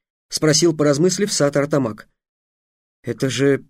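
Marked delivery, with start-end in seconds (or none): 3.0-3.6 confused. Acted. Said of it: "растерялся Трикс".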